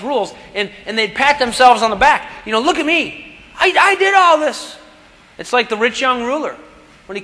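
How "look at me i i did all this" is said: higher, puffed-up bragging voice; mock boastful Pharisee. Preacher mocking a self-righteous Pharisee, puffed-up brag. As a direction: play the smug show-off patting his own back.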